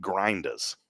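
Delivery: slow, softened Connecticut imitation; lightly put-on Connecticut accent. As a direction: GRINDERS with a dropped r, grindahs. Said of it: "in Connecticut".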